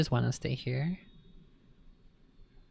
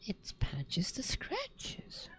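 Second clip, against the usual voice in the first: hushed whisper; 7 semitones higher, 7 dB quieter, much slower than usual. Pretend. Repeating cat's title, softly.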